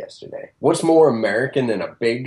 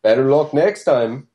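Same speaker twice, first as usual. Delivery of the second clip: fake Canadian accent; 2 semitones higher than usual. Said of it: "worst fake Canadian accent throughout it".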